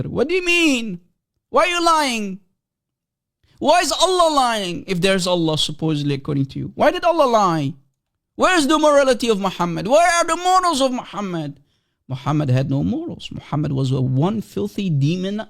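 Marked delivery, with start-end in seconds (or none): 0.0-11.6 indignant questioning. Real, not acted.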